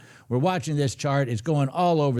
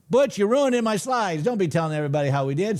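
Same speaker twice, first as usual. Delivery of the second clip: mock outrage; 7 semitones higher than usual. Viewer reveals results, mock complaint.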